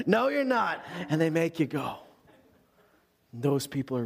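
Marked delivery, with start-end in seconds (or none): 0.1-0.8 higher-pitched firm contradiction; acted insistence. Comrade refusing an exhausted soldier's excuses, insistent. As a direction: cut off the excuses and push him on.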